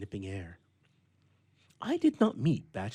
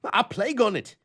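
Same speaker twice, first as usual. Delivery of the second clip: higher, louder angry exclamation; violent outburst; 12 semitones higher, 9 dB louder than usual. A narrator's reading. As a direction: spit it out almost violently. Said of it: "almost with violence".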